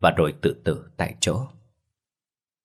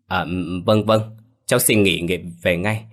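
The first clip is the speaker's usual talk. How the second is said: fake phone sobbing. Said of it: "giọng Liễu khóc tu tu qua điện thoại".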